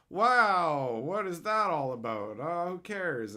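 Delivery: an unimpressed onlooker, mocked; mock dismissive. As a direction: shrug it off as a bystander who doesn't care. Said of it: "And then people go".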